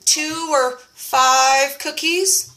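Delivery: drawn-out self-excuse; tempted reasoning. Retold or imitated. Eyeing the cookies, a slow tempted excuse. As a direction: talk yourself into it slowly. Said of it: "And I thought".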